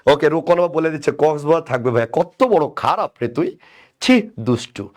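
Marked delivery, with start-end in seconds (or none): 2.1-4.9 drawn-out playful telling-off; mock scolding. Teacher to a cheeky student in the chat, mock scolding. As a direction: pretend to be appalled, stretching the words.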